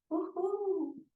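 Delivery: soft high breathy ouh ouh blown out; demo exhale. Shown as a demonstration. Instructor demonstrates the exhale while lifting, soft high blowing. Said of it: "je vais souffler en montant".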